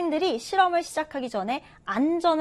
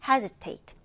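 "hesitate" stressed on its first syllable, HES-i-tate; 2 semitones lower, much slower than usual. Shown as a demonstration. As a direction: hit the start of "hesitate". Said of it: "첫 음절에 강세를 두고 읽어봅니다".

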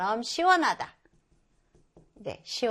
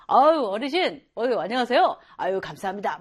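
cheerful greeting; 4 dB louder than usual. Acted. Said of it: "막 이런 사람 있잖아요".

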